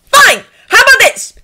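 loud, high, forceful planning; exasperated. A narrator's reading. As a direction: lay out the plan at full volume. Character loudly lays out plan.

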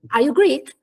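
"Are you Greek?" lifting on Greek; teacher demonstrating the upward tune on "Greek"; rising question intonation. Shown as a demonstration. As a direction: raise the pitch on "Greek" as a model question. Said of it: "l'intonazione fa così".

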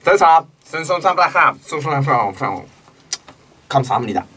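fake Korean. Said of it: "それっぽい韓国語で".

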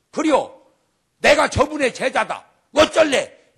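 defiant shout as Peter; loud challenging yell, daring them. Acted. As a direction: throw down the gauntlet. Peter defiantly voiced in story.

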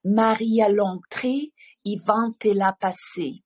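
lightly voiced grandfather with a French r; a hint of an old man saying his French rhyme; grandfather's phrase. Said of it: "і він казав". (дідусева фраза з французьким «р»)

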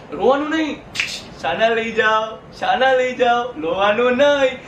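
put-on babying singsong hush; patronising baby talk; mock baby soothing. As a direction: coo at grown-ups as if they were crying infants. Hushes audience like crying babies.

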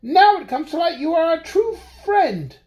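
high, tearful little mouse; crying mouse. Acted. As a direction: wail it through tears. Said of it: "said the mouse, crying".

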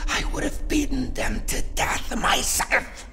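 building into a loud, high-pitched tirade; furious rant. Acted. Boss blames suffragettes for the crisis, ranting furiously. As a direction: rage harder with every phrase until you are shouting.

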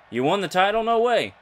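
joking no way; mock disbelief. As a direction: play it like you can't believe it. Mock backstage reaction.

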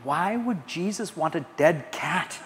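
softly voiced puzzled boy; quiet, puzzled punchline question; confused child. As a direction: lightly imitate a bewildered little kid. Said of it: "Was his biggest confusion".

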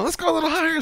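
high, sing-song mock innocence; teasing taunt. Teller teasing his dangling buddy, high playful taunt. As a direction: taunt him playfully, pretending to help.

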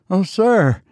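put-on high, pleading old servant; old man's cry. A narrator's reading. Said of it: "cried the old man".

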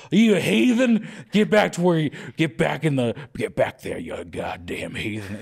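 put-on southern accent. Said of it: "fun to say in a southern accent".

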